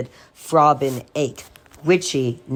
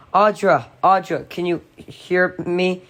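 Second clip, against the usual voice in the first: higher, urgent calling of her name; frantic call; 4 semitones higher than usual. A narrator's reading. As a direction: try to rouse her, alarmed. Finding wife unconscious.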